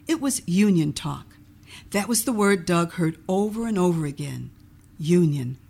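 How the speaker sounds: measured storybook reading; story narration. A narrator's reading. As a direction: read the story aloud with clear, even phrasing. Reads own book aloud.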